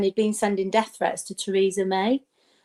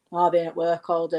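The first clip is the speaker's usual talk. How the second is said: miserable grumpy guy; 4 semitones lower than usual. Retold or imitated. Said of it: "right miserable like that".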